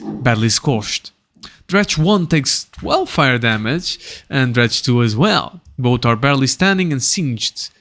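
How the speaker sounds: animated scene-setting read; game master narration. A narrator's reading. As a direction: narrate the fight blow by blow.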